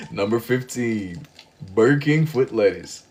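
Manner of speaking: slow, clumsy first try at the Number 15 meme voice; a half-hearted stab at the foot lettuce guy; botched meme voice. Retold or imitated. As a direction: fumble the meme line, dragging it out. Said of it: "that was genuinely garbage".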